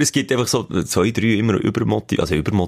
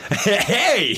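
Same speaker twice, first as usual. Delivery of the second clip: laughing protest; 10 semitones higher than usual. Real, not acted. Teased about being drunk.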